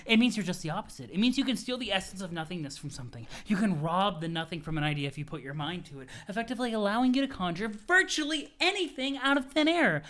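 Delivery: lightly pompous explanation, fast; a hint of grand mentor rattling it off; pompous Jade. Jade explaining void powers to Roxy, lightly pompous. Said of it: "pompous voice".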